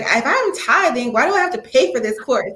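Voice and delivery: imitating an entitled objection; mildly mock protest, pushing the key words; complaining attitude. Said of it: "Some of them have the attitude like".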